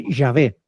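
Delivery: "Yahvé" said in two syllables, stress on the final "vé"; Hebrew pronunciation. Shown as a demonstration. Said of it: "la pronunciación en hebreo".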